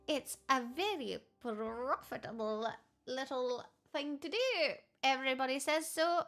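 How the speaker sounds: playful put-on Irish; Irish accent. Streamer chats about gifted subs, put-on Irish accent. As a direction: keep up the Irish lilt. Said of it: "where the Irish accent has appeared".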